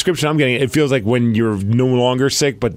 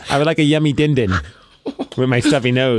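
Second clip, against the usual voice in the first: put-on babyish voice. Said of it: "what are you, two?".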